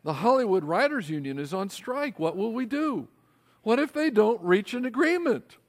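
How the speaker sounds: a hammed-up fretting husband; mock worry. Joking to his wife Carrie about the strike, mock alarm. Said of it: "I'd turn to Carrie and I'd say".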